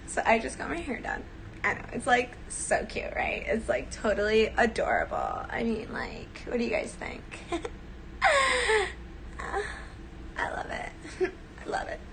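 put-on airy LA girl gushing about her hair. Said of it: "L A bitchy girl".

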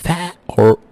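th turned into a f sound; Cockney: th said like f. Shown as a demonstration.

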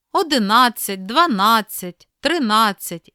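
Одинадцять, дванадцять, тринадцять stressed on NA; second-part stress. Shown as a demonstration. Teacher showing numerals, stress on NA in Одинадцять, дванадцять, тринадцять. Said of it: "Наголос падає на другу частину слова".

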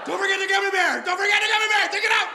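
very high, loud frantic squawk; frantic mock shouting. Inner voice warning him while packing, frantic high yelling. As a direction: shriek a hammed-up warning.

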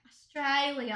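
imitated Australian pronunciation; lightly put-on Australian accent. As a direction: try it like an Australian. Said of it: "do an Australian accent".

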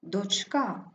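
Дочка stressed on the last syllable, доч-КА. Shown as a demonstration. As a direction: land on КА in Дочка. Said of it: "Наголос падає на А". (Дочка з наголосом на КА)

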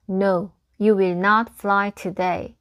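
slow, deliberate storybook refusal; lightly acted firm no, word by word. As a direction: read it out slowly as a mildly stern friend. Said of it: "단호해요".

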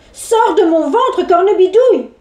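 shouted command; crying out. Acted. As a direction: yell it out. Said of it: "s'écria Pierre".

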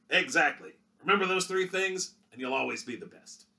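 cheerful hero sign-off; hearty hero. Acted. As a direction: wrap up warmly for the kids. Hero to children.

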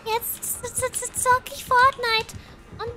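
put-on high, stammering child-like glee; excited German kid. Kid planning Fortnite and cola, giddy imitation. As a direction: stutter excitedly, ending in a squeal.

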